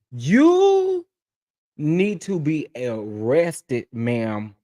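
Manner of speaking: high, slow, indignant scold; you need to be arrested, drawn out in shock; 1 outraged disbelief. Real, not acted. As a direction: scold the baker like she committed a crime. Outraged at cookie, mock arrest.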